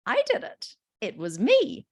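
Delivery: high-pitched, eager little owning-up; happy child. Acted. Child proudly claims the wall drawing, happy high voice. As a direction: pipe up high, glad to take credit. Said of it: "more than happy to take responsibility".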